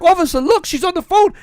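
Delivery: loud, high-pitched pleading with an officer; hammed-up desperate appeal; urgent retold plea. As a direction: plead loudly as if retelling your own panic.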